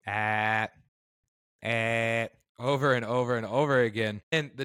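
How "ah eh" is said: strained throaty ah and eh sounds; gagging ah. Retold or imitated. Patient with a camera down his throat gagging ah, eh. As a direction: grunt through the camera in the throat. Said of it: "I have to go".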